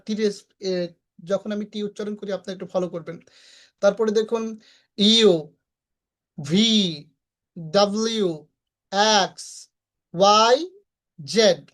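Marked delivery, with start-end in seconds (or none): 3.8-11.6 letter names said one by one, distinctly; careful teacher's demo of letter sounds; phonetic pronunciation. Shown as a demonstration. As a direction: model each letter phonetically, pausing between them. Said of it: "এই হচ্ছে ফনেটিক্সের উচ্চারণ".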